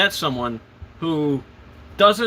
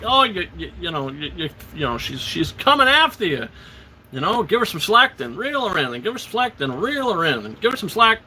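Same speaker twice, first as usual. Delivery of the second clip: gargoyle advice; 3 semitones higher than usual. Retold or imitated. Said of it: "the gargoyles are like".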